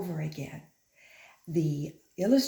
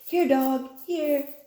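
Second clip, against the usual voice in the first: high, loud call to the dog; 8 semitones higher, 6 dB louder, slower than usual. Acted. Daughter calling the dog to come, high loud call. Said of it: "daughter called the dog".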